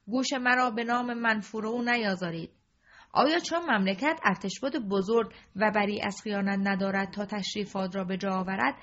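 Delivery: loud, wrathful royal orders; king furious at his courtiers, loud; angry king. Acted. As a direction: rage at the traitor's name. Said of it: "با همان لحن تند".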